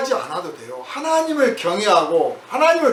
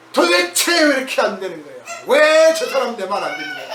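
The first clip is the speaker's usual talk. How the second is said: 짜증. Retold or imitated. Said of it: "막 짜증부터 내면".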